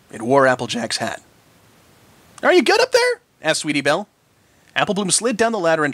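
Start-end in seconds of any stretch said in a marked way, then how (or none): 2.4-3.2 calling up. A narrator's reading. Calling up to the loft.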